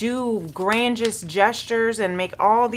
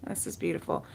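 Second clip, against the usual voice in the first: whispered aside; 14 semitones lower, 11 dB quieter, much faster than usual. Real, not acted. Aside while reading the cards.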